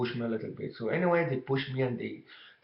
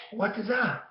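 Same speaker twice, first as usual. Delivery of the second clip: surprised mom; 9 semitones higher than usual. Retold or imitated. Mom surprised by the dragged kid.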